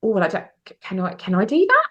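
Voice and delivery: stammering, unsure question; falter, then ask permission; hesitant self-doubt. Retold or imitated. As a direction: imitate someone unsure they're allowed. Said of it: "for a woman to do, it's like".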